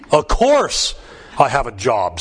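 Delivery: a quick indignant snap, lightly acted; snapped. Woman renewing her license snaps at the recorder, mildly indignant. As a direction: bite the words off, offended. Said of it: "snapped the woman".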